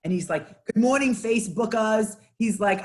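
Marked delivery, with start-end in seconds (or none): 0.7-2.2 put-on Boston accent. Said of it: "very heavy Boston accent".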